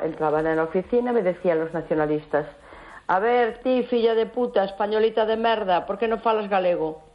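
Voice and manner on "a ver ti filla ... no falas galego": mocking nationalists. Caller imitating nationalists taunting her, mock sneer. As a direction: sneer like hostile activists, lightly. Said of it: "Así".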